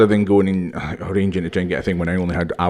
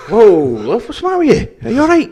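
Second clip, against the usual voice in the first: high, loud comic concern; laughing, exaggerated panic; mock alarm; 5 dB louder than usual. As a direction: react as if she's choking, hammed up. Mock alarm at wheezing shopkeeper.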